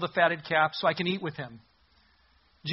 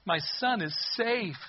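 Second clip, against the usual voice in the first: thrilled father; 4 semitones higher than usual. Acted. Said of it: "His father is thrilled".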